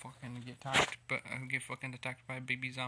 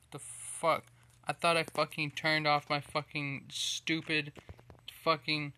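loud, higher furious yell; angry outburst; 4 semitones higher, 6 dB louder than usual. Real, not acted. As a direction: blow up at the game. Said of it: "I'm agitated right now".

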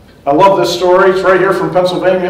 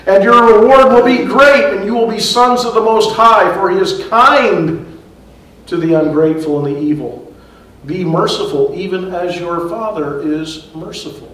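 scripture reading. Acted. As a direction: read it out as sacred text. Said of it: "Jesus says".

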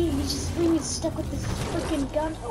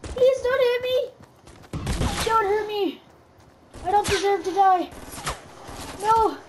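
cringing submission; 8 semitones higher, 6 dB louder than usual. Pretend. Begging while getting killed in game.

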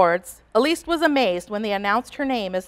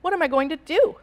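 put-on higher, worried child's question; dismayed cry; 7 semitones higher than usual. A narrator's reading. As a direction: ask helplessly, pitch lifted. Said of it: "she cried".

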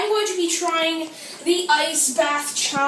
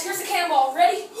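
ordinary talk

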